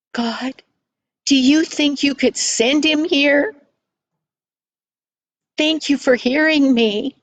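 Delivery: a hint of an earnest young pray-er; praying child. Girl asking God for help, lightly voiced prayer.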